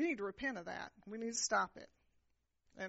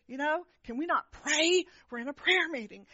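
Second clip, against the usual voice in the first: irritated thought; 5 semitones higher, 3 dB louder than usual. Retold or imitated. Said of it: "I'm thinking to myself".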